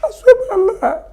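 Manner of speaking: choking up while insisting he isn't crying; emotional, near tears. Real, not acted. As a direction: voice cracking high with emotion. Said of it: "You're getting emotional".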